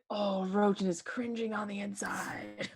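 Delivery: drawn-out, breathy mock thought; slow teasing line tipping into a laugh; gleeful teasing. Teasing a player with drawn-out groan.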